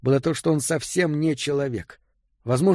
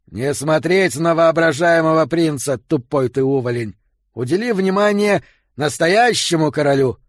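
shouting; 3 semitones higher, 4 dB louder than usual. Acted. Стражник орёт на узника.

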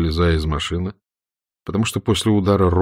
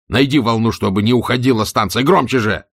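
urgent shouting; 3 semitones higher than usual. Acted. Roman urges Stirlitz to tune the radio, urgent. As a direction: push him to find the station fast. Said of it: "вдруг крикнул Роуман".

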